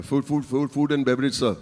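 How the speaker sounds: mildly flustered, stammering on the first word. Retold or imitated. Job applicant stammering to his interviewer, mildly flustered. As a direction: stumble into a meek answer.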